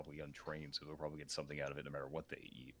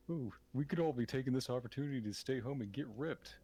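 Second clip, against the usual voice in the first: mocking airhead voice; 9 semitones higher, 3 dB louder than usual. Mocking someone's Twitter post.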